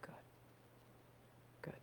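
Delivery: calm grounding guide with long pauses; unhurried phrases, leaving room to breathe; guided meditation. Real, not acted.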